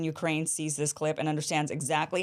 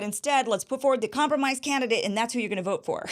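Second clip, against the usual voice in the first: mocking Democrats; 6 semitones higher, faster than usual. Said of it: "And they said".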